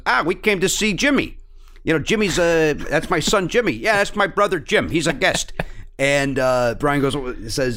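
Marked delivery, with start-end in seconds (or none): 0.0-5.5 higher, lightly exaggerated Chicago family voice; proud Chicago parent, lightly imitated; Chicago accent. Family tells a writer they came to see Jimmy, imitated Chicago accent. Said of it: "They said".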